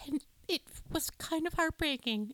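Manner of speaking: a hint of a fretful mom breaking bad news; mom impression. Mom telling the girls, mild upset mom voice. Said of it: "your mom impression".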